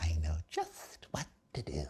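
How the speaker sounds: slow, hushed, soft, drawn-out creepy voice. Speaker who does character voices for kids, answering in the Grinch voice. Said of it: "To do a voice character for".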